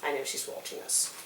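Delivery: unvoiced spooky whisper; creepy whisper. Whispering to cohost that something watches them. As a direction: breathe it like a ghost story. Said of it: "spooky aside about camera".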